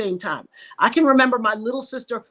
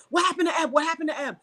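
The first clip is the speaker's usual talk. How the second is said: mild mock yell, pitched up; retold screaming; 5 semitones higher, faster than usual. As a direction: imitate a brother-in-law yelling in the background. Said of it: "in the background screaming".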